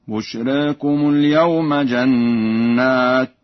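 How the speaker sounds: بشراكم with the alif after ra leaning toward e, slow; taqlil. Shown as a demonstration. Teacher demonstrating taqlil after ra. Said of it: "بتقليل الألف".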